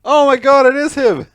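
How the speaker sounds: high, loud burst of recognition; excited surprise. Real, not acted. Friend spotting the actor in a photo, high excited cry. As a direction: gasp it out, suddenly starstruck.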